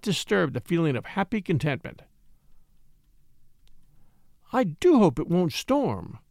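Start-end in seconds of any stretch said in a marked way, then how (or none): 4.5-6.2 slow, mildly nervous character voice. A narrator's reading. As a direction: voice a touch of worry, slowly. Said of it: "she said nervously".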